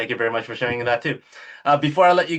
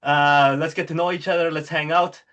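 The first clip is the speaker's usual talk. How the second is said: Matthew McConaughey impression; 4 semitones higher than usual. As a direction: play it like a friendly McConaughey buddy. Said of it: "McConaughey shows up at your door and goes".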